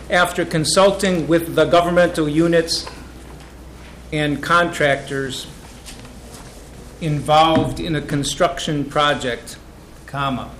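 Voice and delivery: slow read-back with long pauses between phrases; measured, phrase-by-phrase rereading. Shown as a demonstration. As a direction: read it out in chunks for someone taking it down. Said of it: "I can read that slower".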